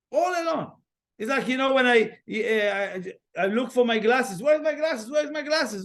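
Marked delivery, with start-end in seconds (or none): 4.4-5.8 frantic searching. Retold or imitated. Searching for glasses.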